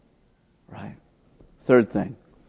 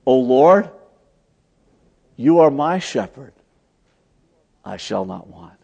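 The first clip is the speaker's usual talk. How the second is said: 1 personalized prayer; 3 dB louder than usual. Shown as a demonstration. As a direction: pray it straight to the Lord, trailing off. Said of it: "we would personalize the prayer".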